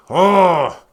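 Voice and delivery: loud, high ranting protester; hammed-up outrage, trash-the-store energy; mock angry protester. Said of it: "I'm angry".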